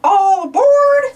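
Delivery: conductor's call. Acted. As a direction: call everyone onto the train. Calling out to board train.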